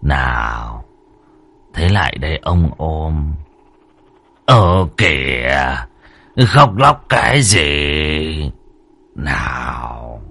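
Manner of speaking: deep, slow lecherous coaxing; low coaxing master. Acted. Master hushing the crying servant girl, low and slow. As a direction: draw her in, low and slow.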